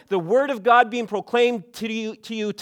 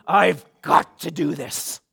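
compelling; 3 semitones lower, 3 dB louder, slower than usual. Retold or imitated. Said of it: "a strong, compelling".

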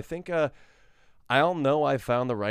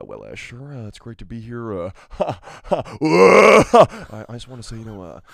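soft Chalamet impression; 2 semitones lower, 3 dB louder than usual. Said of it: "I go into Timothy Chalamet".

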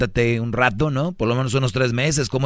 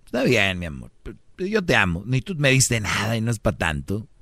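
put-on conciliatory boyfriend reply. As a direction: play a partner gently brushing it off. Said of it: "Entonces tú puedes contestar". (imitando al novio que contesta)

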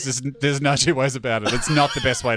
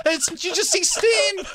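laughing mock guide; slower than usual. Guide explains steam.

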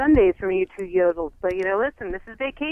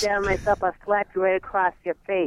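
put-on Boston accent; 3 semitones lower than usual. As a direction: play a tough Boston local. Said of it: "wish I had a better Boston accent".

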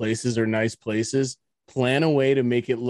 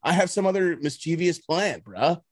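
exasperated rant; 4 semitones higher, faster than usual. Real, not acted. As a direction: fire off the complaints in disbelief. Ranting at rude hotel manager.

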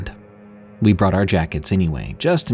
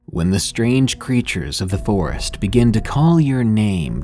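ominous late night radio. Acted. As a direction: spin a spooky hook for listeners. Ominous horror podcast intro.

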